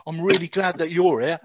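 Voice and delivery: lightly imitated Cockney; Cockney accent. Retelling the prisoner's greeting, in a light Cockney accent. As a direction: quote him with a touch of Cockney. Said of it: "with this Cockney accent".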